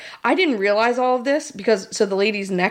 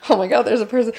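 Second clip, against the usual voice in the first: higher, excited true-crime voice; mock alarmed; 3 semitones higher than usual. Mocking her true-crime self to a friend, excited. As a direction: play the breathless podcast fan. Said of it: "true crime podcast is like".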